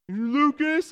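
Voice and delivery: put-on high small-boy answer; little boy voice. Dad imitating his son saying his name. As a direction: answer like a shy kid.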